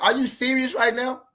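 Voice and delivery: high-pitched mock disbelief; imitated incredulous girlfriend. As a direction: imitate her taken aback, pitched well up. Girlfriend's reaction voiced in story.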